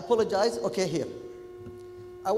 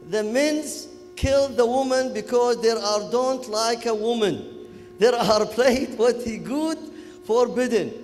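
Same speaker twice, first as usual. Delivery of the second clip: Kuwaiti English; 3 semitones higher, 6 dB louder than usual. Retold or imitated. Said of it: "talking, uh, Kuwaiti English".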